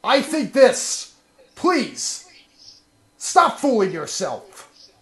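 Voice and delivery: lightly hammed-up dramatic speech. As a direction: deliver it like a wounded leader. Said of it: "Very dramatic, sir".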